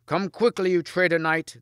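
high, loud accusing shout; shouting back. A narrator's reading. Knights outside answering Lancelot, shouted high and loud. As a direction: shout it back as a hostile challenge. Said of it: "they shouted back".

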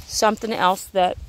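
talking with a mouth full. Real, not acted. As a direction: speak through a bite of lettuce. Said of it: "I should not eat with my mouth full".

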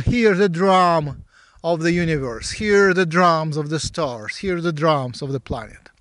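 measured, incantatory meditation guiding; guided meditation. Real, not acted. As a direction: draw out each invitation to listen, like an incantation.

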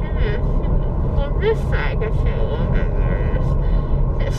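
after wisdom teeth; numb cheeks. Real, not acted. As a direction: mouth numb, words blurred. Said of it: "My cheeks are numb".

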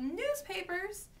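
high, drawn-out vendor's cry; newsboy's call. A narrator's reading. Boy selling at the newsstand, mild calling out. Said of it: "he forgot to shout".

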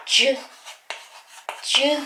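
"十" as a single blended "juu" sound; merged sound. Shown as a demonstration. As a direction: isolate the joined d plus you as "十", juu. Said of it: "みたいな感じの音". (「十」をジュウという一つの音で発音)

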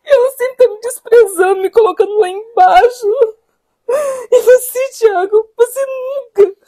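crying, wounded protest; tearful reproach. Acted. Wife to husband asking her for patience, tearful reproach. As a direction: let the hurt spill out in sobby accusations.

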